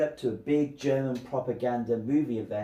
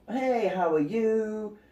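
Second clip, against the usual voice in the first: happy Landa; 5 semitones higher, slower than usual. Retold or imitated. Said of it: "he's happy".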